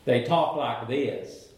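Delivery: Southern hick accent. Shown as a demonstration. Preacher showing how country hicks from the South talk, Southern hick accent. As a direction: imitate a small-town Southern hick. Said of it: "It's my best imitation".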